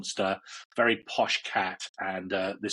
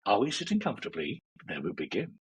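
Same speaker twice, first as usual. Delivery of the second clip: storyteller meditation opener. Retold or imitated. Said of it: "his is probably a little bit more".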